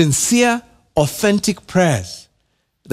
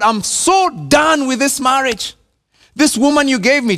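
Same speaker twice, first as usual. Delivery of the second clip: fed-up complaint; 7 semitones higher than usual. Retold or imitated. Voicing a fed-up spouse.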